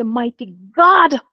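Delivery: slow, drawn-out cry; a mother's drawn-out plea, half-pleading; anguished plea to God. Retold or imitated. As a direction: stretch it out, calling on God. Crying out to God in distress.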